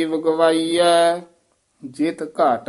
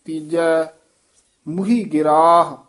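phrase ending on ਗਿਰਾਹ, then a full pause; pause after ਗਿਰਾਹ. Shown as a demonstration. Teacher showing where to rest, pause after ਗਿਰਾਹ. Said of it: "ਇੱਥੇ ਵਿਸਰਾਮ ਹੈ".

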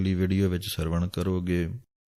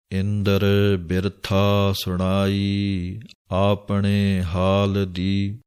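slow, drawn-out chanting of the verse; scripture recitation; 3 dB louder, much slower than usual. Acted. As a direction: intone each word slowly like a reading of Gurbani. (ਹੌਲੀ ਹੌਲੀ ਬਾਣੀ ਦਾ ਪਾਠ)

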